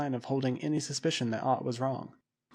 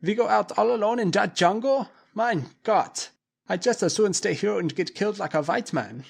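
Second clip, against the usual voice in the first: put-on much higher, louder frightened accent voice; panicked man; 8 semitones higher, 5 dB louder than usual. A narrator's reading. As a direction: panic at the thought. Bluber panics.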